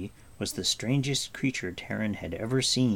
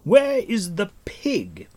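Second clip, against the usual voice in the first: slow, loud, high demand; impatient demand; 11 semitones higher, 8 dB louder, slower than usual. A narrator's reading. Gwydion demanding answers, slow and loud. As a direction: demand it hard.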